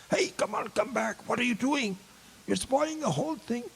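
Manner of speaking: put-on high, breathy urgent child's hiss; hushed older sister. Nine-year-old scolding little sister mid-play, hushed and high. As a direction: shush her sister quickly, half-whispered.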